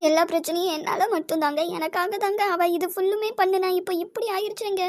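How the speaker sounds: weeping self-blame, rising into sobs; breaking into tears. Acted. Mother blaming herself for her lost daughter, tearful. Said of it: "நீ அழாத".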